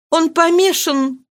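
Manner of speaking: high, slow despairing cry; distraught. Acted. Marie telling Marianne her father is mad: distraught. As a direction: say it in horror.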